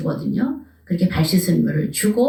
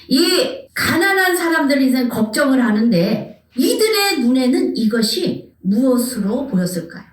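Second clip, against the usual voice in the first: normal talking voice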